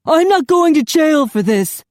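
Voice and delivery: loud, high defiant shout; cornered husband shouting. A narrator's reading. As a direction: refuse with fury. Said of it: "Charlie shouted".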